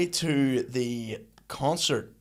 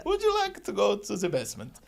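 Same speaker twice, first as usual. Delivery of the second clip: put-on Paris accent; 7 semitones higher than usual. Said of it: "in a Paris accent".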